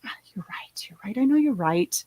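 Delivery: whispered teasing 'you're right'; whispered, playful catchphrase; whispered joking concession. Retold or imitated. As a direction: mimic the catchphrase under your breath. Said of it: "always back and forth".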